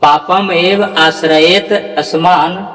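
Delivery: slow measured chant; slow recitation. Shown as a demonstration. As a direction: recite the full line slowly, word by word. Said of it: "इस तरह से".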